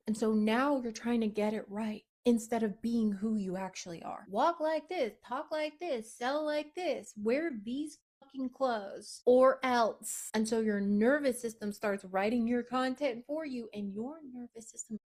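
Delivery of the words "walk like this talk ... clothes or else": higher, louder mocking orders ending in a threat; bossy demands. Coach mocks the inner rulebook with bossy higher orders. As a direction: bark out the rules like a strict boss. Voicing the rules clients must follow.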